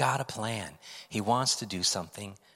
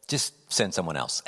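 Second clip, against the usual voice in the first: blunt; 4 semitones lower than usual. Retold or imitated. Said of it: "his final objection is pretty blunt".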